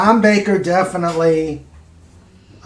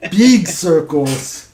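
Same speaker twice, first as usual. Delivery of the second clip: slow, drawn-out emphasis; 3 semitones higher, 5 dB louder, slower than usual. Pretend. Echoing joke slowly.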